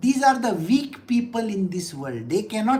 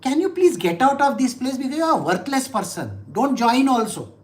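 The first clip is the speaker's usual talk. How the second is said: scornful dismissal; 2 semitones higher than usual. Retold or imitated. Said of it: "I tell these people normally".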